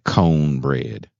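"cone" drawn out slowly for corn; mimicked blaccent pronunciation. Imitating a TikTok lady's fake accent, "cone bread" drawn out. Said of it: "says words that no black people really say".

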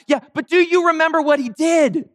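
high-pitched mock disbelief; comic exasperated comeback; incredulous retort. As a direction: push back, pitch jumping way up. Acted retort to Sabbath quibble.

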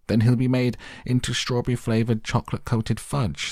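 high-pitched mock scream, contained volume; storyteller's shrieking mother. A narrator's reading. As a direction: wail the whole line up high without full force. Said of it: "screamed Missus Gloop".

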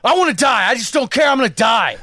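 road-rage driver yelling at him; imitating crazed yelling. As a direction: rave like a man ready to die. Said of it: "what scared me was".

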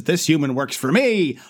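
put-on act. Bulkhead covers for his human friend, lightly hammed-up act. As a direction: act it out with an unsubtle stage wink.

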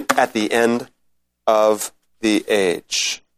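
measured, solemn reading of Daniel; scripture reading. Acted. Teacher reads scripture to his class, solemn and measured.

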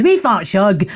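playful Scots accent. Shown as a demonstration. Host trying a listener's name, Scots accent. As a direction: say WEE FAT SHUG as a Scot would. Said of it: "I want to see it in a Scots accent".

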